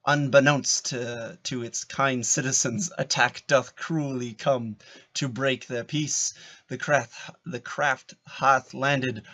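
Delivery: slow, measured recitation; unhurried theatrical narration; mock-Shakespeare stage reading. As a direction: deliver archaic verse with deliberate weight. Reads Qui-Gon's part.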